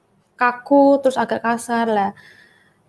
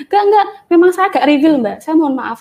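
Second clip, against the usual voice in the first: much higher and louder hurried denial; a retold customer protesting he was at fault; eager apology; 4 semitones higher, 5 dB louder than usual. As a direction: rush to take the blame.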